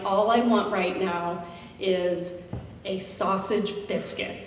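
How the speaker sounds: slow, soft, drained hangover voice; a mild groggy plea for food; hungover whine. Retold or imitated. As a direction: sound too hungover to care. Retold hungover on the bus.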